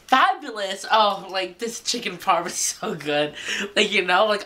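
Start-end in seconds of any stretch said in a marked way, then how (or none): 0.1-3.3 a mildly gushing TV-chef voice, higher on the first word; Rachel Ray impression. Imitating a TV chef praising her chicken parm. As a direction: lightly mimic a cooking-show host raving over the food. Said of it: "I feel like Rachel Ray right now".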